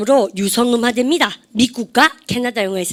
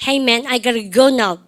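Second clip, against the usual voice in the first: very slow, drawled Hey man, I gotta go now; slow slangy rapper voice; laid-back rapper talk; much slower than usual. Shown as a demonstration. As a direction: stretch it out like a cool rapper. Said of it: "특히 랩돌이들".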